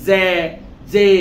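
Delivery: "জে" as z-like zae, vowel held without a glide; common wrong J. Shown as a demonstration. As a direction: demonstrate faulty "জে", buzzy onset and open e. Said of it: "আমরা বেশিরভাগ বলি জে".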